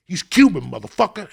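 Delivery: loud, high, defiant he's Cuban; retold loud retort. Kid shouts back at the guys in the projects. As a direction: fire it back at them loudly.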